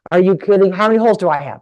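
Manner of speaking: mock-horrified kid overwhelmed by anatomy; panicky twelve-year-old boys. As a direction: play a freaked-out middle school boy. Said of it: "They're like".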